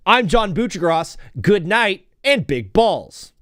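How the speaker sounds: lightly imitated sportscaster sign-off, slow on the last words; a hint of a TV host signing off, drawn out; John Buccigross sign-off. Streamer imitating an old TV host's nightly sign-off, mild announcer voice. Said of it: "He would sign off every night".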